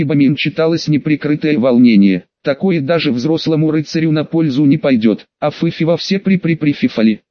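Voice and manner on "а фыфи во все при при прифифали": lisping and stuttering при-при-прифифали; barely speak, lisping with broken teeth; slushy sh for s. A narrator's reading. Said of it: "еле-еле спросил я".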